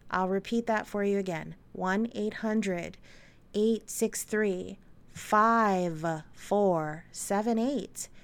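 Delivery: slow, careful, polite number reading; customer service voice. Shown as a demonstration. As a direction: read it out like a call centre agent. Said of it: "that sounded like the customer service voice".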